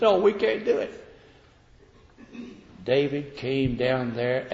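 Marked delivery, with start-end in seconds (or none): 0.0-1.0 lightly whining oh; a half-hearted crybaby whine; mock whine. Preacher mocking the whining army, mildly whiny. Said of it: "crying and whining and said".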